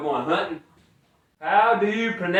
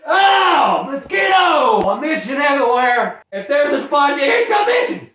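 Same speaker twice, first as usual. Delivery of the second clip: mock panic; 6 semitones higher than usual. Acting mosquito attack, frantic.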